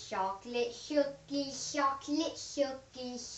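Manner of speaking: slow, lightly nerdy sing-song; a mild put-on nerd drooling over cookies. Kid showing off a new nerd voice to viewers, lightly hammed. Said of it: "I'm able to do a nerd voice now".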